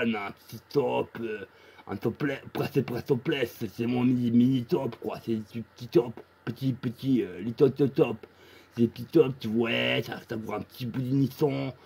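« niçon » dit avec un s zézayé au lieu de ch; zézaiement. Acted. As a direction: zozoter sur chaque s et ch, « niçon ». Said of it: "essayez de pas zozoter". (voix qui zozote)

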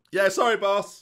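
high, loud acknowledgement; shouted apology. Acted. Player answering his boss, shouting. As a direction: yell sorry to the boss. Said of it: "It's all right, shouting".

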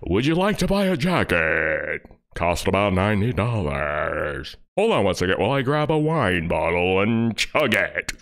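put-on smarmy pitch voice; mock salesman host. Mocking the host hawking jackets, smarmy pitch. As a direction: sell the jacket like him.

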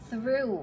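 "through" with TH-R and an "อู" vowel; careful verb-form demo. Shown as a demonstration. Teacher shows the second verb form, careful "อู" in "through". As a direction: model "through" carefully, ending in "อู". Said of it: "ก็คือ".

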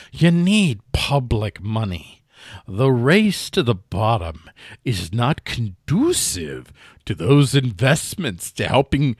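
slow, lightly snooty British reading; haughty, deliberate put-on British delivery; snooty mock-British accent. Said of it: "read it in a very snooty way".

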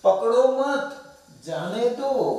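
high, slow पकड़ो मत, pause, then जाने दो; pause after मत. Shown as a demonstration. Teacher moves the comma and reads, pausing after मत. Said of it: "पॉज यहाँ के बजाय यहाँ लिया है".

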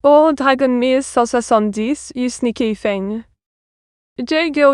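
a hint of put-on French accent; mixed French accent. Streamer teasing a viewer who shrank her, in a light French accent. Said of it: "She gives the accent, it is a bit of a mix".

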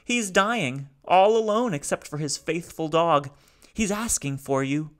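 high, loud, rasping despair; raspy robot. A narrator's reading. Grieving robot begs the family to kill him, raspy and high. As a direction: rasp it out, begging to die. Salo continues.

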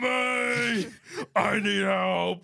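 put-on high, desperate British-accented shout; Peaky Blinders British accent. Arthur begging his brother for help, shouted British accent. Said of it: "In Peaky Blinders?".

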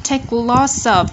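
LOTS OF joined, S carried into OF; linked sounds. Shown as a demonstration. Teacher demonstrating linking to learners, LOTS OF joined as one. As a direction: slowly run LOTS into OF. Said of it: "chúng ta nối âm này".

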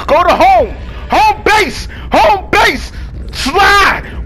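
root for yourself to slide home; cheering on. Real, not acted. Cheering himself to safety.

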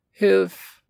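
a sudden high, loud cry for help; terrified boy shrieking for help; panicked cry. Acted. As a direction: scream for your mother. Boy pinned, calling for mother.

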